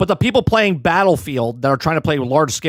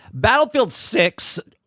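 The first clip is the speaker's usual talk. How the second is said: high voice cracking and breaking mid-word; 6 semitones higher than usual. Reading out a gaming news story, voice cracking. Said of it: "as my voice cracks".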